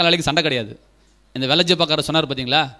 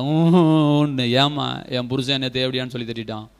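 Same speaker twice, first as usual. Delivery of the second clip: drawn-out mock wail, then lower plaint; imitated crying; 3 semitones lower, slower than usual. Preacher imitating church women crying over husbands, mock weeping. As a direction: mimic a weeping complainer, wail first. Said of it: "அழுவாங்க".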